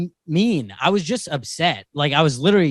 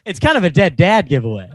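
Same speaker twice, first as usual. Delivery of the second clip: laughing through the pun; amused at his own joke; 5 semitones higher, 5 dB louder than usual. Real, not acted. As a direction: giggle the punchline out.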